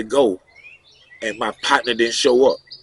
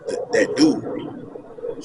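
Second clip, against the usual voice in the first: whispered; 6 dB quieter, much slower than usual. Retold or imitated. Retelling insult, drops to whisper.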